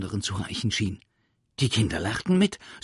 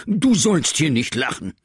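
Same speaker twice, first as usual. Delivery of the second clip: stern teacher order; 8 semitones higher, 11 dB louder than usual. Acted. Teacher forbids laughing.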